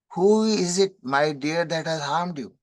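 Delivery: a touch of royal indignation; king's angry demand. Retold or imitated. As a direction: demand it like an outraged king. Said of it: "that kind of anger he is showing".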